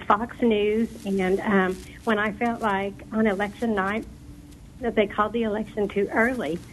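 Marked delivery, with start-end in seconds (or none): 2.1-6.6 losing her voice; hoarse, fading voice. Real, not acted. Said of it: "I'm losing my voice".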